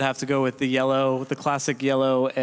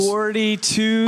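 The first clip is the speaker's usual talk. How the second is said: slow dramatic reveal; 8 semitones higher, 3 dB louder, much slower than usual. Acted. Drawn-out stat reveal.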